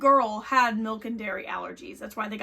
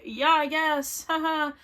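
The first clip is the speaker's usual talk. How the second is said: uneasy agreement; 4 semitones higher, 3 dB louder than usual. Retold or imitated. Girlfriend placating her boyfriend in the car, uneasy agreement.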